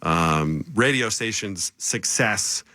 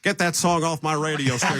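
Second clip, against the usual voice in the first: higher-pitched country bumpkin boss; country bumpkin accent; 7 semitones higher than usual. Acted. Manager orders a song pulled off air, country bumpkin accent. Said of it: "turned into a country bumpkin".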